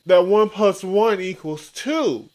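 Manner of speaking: exasperated lecture to Heather; loud sarcastic lecture. Real, not acted. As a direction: drive each word in like it's obvious. Mock logic lecture.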